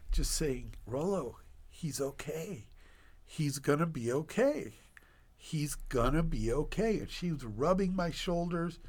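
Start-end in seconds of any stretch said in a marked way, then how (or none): 0.8-7.0 softly voiced comforting friend; gentle reassurance. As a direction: soothe a crying friend, quietly. Friend soothing him, rubbing shoulders.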